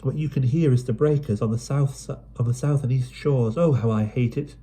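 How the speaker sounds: tired, fed up with the island; mild drearily voiced girl; dreary sigh. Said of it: "Pen sighed drearily".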